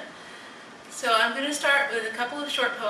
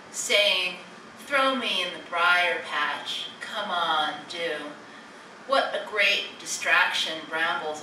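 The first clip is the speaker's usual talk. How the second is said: measured poem recital, line by line; poetry reading. Acted. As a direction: read your poem with deliberate pauses between lines. Reads own poem aloud.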